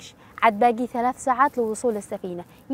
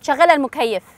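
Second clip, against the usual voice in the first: louder, insistent order; firm demand; 3 semitones higher, 6 dB louder than usual. Acted. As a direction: order the driver firmly, raising your voice. Paying passenger orders driver about air conditioner.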